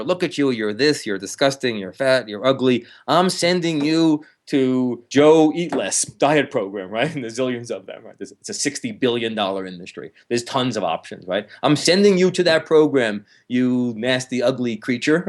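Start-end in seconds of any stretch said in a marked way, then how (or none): 0.0-6.9 mock inner critic yell. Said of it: "that part that yells at her". 11.6-15.2 mock scolding. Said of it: "that part that yells at her".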